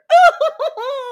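real, high-pitched whooping laugh; helpless loud high cackle; high loud burst of laughter. Real, not acted. Laughs at the retold weightlifting quote.

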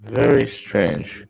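robotic, glitchy clipped audio; slow, distorted voice; clipping distorted mic. Real, not acted. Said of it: "it's still messed up".

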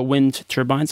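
"wind turbines" slowed, with the two words kept apart; careful clarification. Real, not acted. Guest clarifying a misheard word for the host, slow and careful. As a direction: say "wind turbines" slowly so it is understood.

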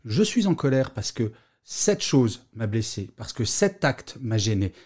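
slow, measured statement of anger; composed anger. Shown as a demonstration. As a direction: own the anger calmly, taking your time. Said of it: "un petit peu plus posée".

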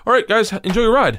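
high, laughing, loud mock capitulation; nervous dockmaster. Dockmaster giving in after seeing the gun, high nervous laugh.

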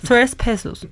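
"Tres Pesos" in a put-on English accent; mock English accent. Shown as a demonstration. Host joking that it's English, mock English accent. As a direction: say it with an exaggerated American accent. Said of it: "Sí, es inglés".

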